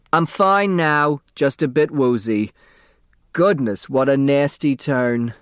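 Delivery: put-on slow, a touch woozy older woman; lightly voiced Sidel. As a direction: shaken but brushing it off. Sidel voiced after fall.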